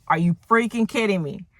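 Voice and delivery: retold indignant outburst, mildly heated; mock livid. Ray objects that the judge already decided, mildly livid. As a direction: argue it with a touch of pushy exasperation. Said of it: "Ray is really livid now".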